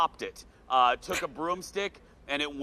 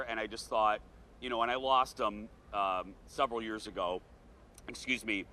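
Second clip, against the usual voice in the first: holding back tears; 3 semitones lower than usual. Real, not acted. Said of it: "I'm trying not to cry".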